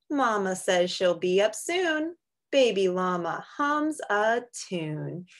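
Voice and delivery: sing-song picture book read; reading to children. Acted. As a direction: read it gently to little kids. Reads a picture book aloud.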